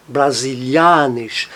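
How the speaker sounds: "brasilianisch" slowly, stressed on A before nisch; stress before -isch. Shown as a demonstration. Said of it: "sempre traz a sílaba tônica".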